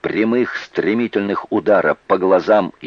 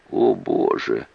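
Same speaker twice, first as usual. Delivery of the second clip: gasped exclamation; 4 dB quieter, slower than usual. Acted. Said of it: "вырвалось у Эбби".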